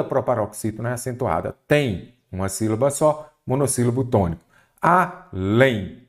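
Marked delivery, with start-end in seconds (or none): 4.8-6.1 "Além" split in two, leaning on "lém"; stress on last syllable. Shown as a demonstration. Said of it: "Qual que é a sílaba tônica?". ("Além" separado em sílabas, com a última tônica)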